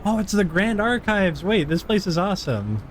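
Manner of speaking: light up at the sight; excited. Real, not acted. Player thrilled to reach the Grand Archives, excited exclamation.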